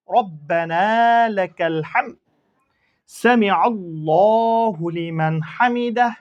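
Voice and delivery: slow, drawn-out Arabic recitation; prayer recitation. Shown as a demonstration. Teacher recites the prayer for students, slow and drawn out. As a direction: chant each word slowly and clearly for learners. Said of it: "রুকু থেকে ওঠার সময় পড়ার দোয়া".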